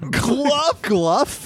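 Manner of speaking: high, rising disbelief; incredulous. Real, not acted. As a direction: repeat the name in disbelief. Surprised at the name.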